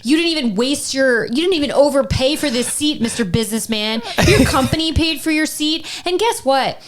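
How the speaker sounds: mock indignant rant. Mom imagines scolding the businessman behind her, mock-outraged. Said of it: "this is all in my head".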